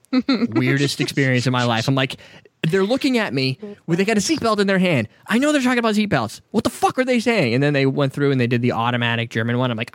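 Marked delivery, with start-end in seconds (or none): 2.6-7.5 higher-pitched, mildly exasperated confusion; retold bafflement. Passenger recalling incomprehensible seatbelt instructions, mock exasperated bafflement. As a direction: relive being lost during a safety demonstration.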